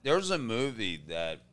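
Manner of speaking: talking while munching chips; words around a mouthful of chips; crunching chips. Real, not acted. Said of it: "I'm sorry if I'm crunching".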